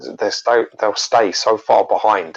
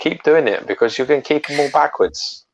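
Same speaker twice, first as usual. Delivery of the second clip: high-pitched mock fan praise; mock encouragement; 6 semitones higher than usual. Co-host parodying people praising bad fan art, mock encouragement. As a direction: gush it high, in jest.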